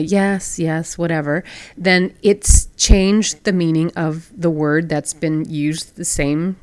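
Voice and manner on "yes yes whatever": offhand, couldn't-care-less yes; indifferent. Shown as a demonstration. Host showing how tone changes meaning, indifferent. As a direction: brush it off with indifference. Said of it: "or saying it indifferently".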